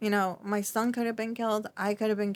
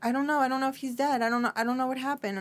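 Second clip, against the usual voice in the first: retold panic; 4 semitones higher, faster than usual. Telling her mother she doesn't know if her father is dead, frantic. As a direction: relive the fear of not knowing. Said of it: "And I'm like".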